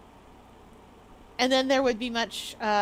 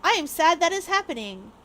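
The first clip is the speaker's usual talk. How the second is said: mock sympathy; 5 semitones higher, 3 dB louder than usual. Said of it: "not in an oh boy popcorn way".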